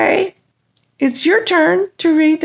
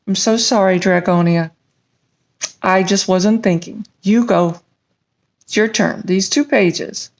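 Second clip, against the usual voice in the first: apologetic dragon voice; 10 semitones lower than usual. Acted. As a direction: mumble sorry in a low dragon voice.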